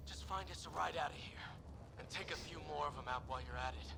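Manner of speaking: hushed, breathy whisper. Acted. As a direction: whisper it out, hurt. Wounded soldier sends team on.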